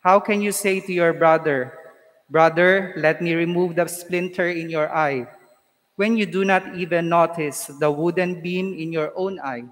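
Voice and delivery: solemn, measured liturgical reading; Gospel proclamation. Acted.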